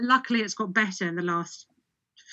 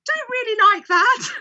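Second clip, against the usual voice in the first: mock disappointed taster; 12 semitones higher, 6 dB louder than usual. Imagined person trying new oil.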